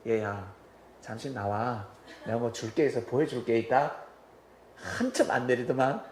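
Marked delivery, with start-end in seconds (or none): 0.1-4.0 a hint of a coaxing, gentle father; changed sweet tone. Father coaxing his stubborn son out of the car, gently. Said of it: "말톤을 바꿨습니다".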